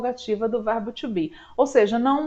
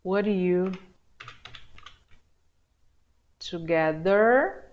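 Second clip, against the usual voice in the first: slow drill; 3 semitones lower, 3 dB quieter, much slower than usual. Shown as a demonstration. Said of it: "Vamos fazer um pouquinho de pergunta".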